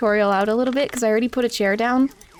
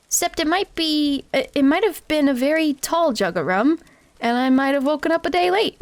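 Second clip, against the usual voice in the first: Wimby voice. Acted. Wimby's street urchin voice.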